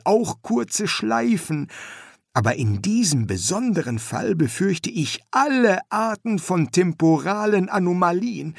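put-on high, eager young man; young son voice. Son explains the danger.

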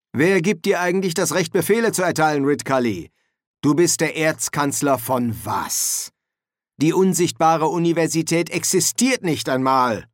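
indignant attack. Acted. Dean attacking Ridcully.

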